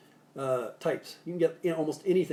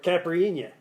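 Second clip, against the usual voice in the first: mock New York accent; 2 semitones higher, 4 dB louder than usual. Shown as a demonstration. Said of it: "as they say in New York".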